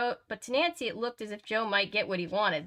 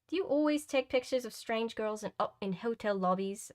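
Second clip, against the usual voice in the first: higher-pitched attempt at proper upper-class British; badly faked upper-class British girl; upper-class British accent; 3 semitones higher than usual. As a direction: put on a shaky amateur posh British accent. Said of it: "in a proper upper-class British accent".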